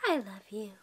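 soft, low mama-duck reassurance; tender. Pretend. Mama duck answering her baby, tender and soft. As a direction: say it gently to a little one.

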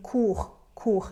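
COURT as 'koor', silent t; pronunciation demo. Shown as a demonstration. Teacher showing four forms sound alike, pronunciation demo. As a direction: say COURT twice as 'koor', without the t. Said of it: "สี่ตัวนี้ออกเสียงเหมือนกันคือ".

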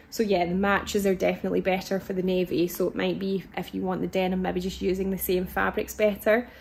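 hoarse, rough voice; a croaky, tired voice. Real, not acted. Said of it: "really croaky".

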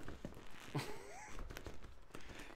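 airy squeal of laughter; breathy high laugh. Real, not acted. Laughs at own joke.

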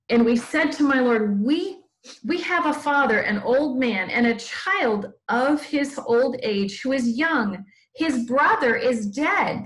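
slightly lifted, measured Bible reading; scripture read aloud. A narrator's reading. Teacher reading the Bible story to children, expressive scripture reading. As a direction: read it out with deliberate weight on the phrases.

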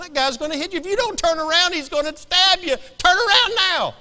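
high, urgent movie-watcher warning; acted panic, shouting at an actor; hollering at the screen. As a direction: build to a loud, frantic yell. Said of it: "I'll be hollering at the guy".

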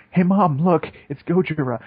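lightly voiced excited kid; little kid. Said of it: "there's this little Japanese kid and this mom".

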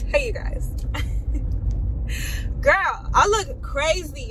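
chirpy car greeting; excited greeting. Real, not acted. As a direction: greet the viewers brightly.

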